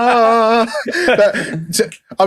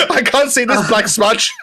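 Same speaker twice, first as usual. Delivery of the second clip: laughing; 5 semitones higher than usual. Real, not acted. Laughing at a joke.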